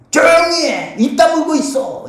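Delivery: high-pitched imitated scolding; mock scolding. Crowd telling the blind man to shut up, mock scolding. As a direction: hush him like an annoyed bystander. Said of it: "이런 말입니다".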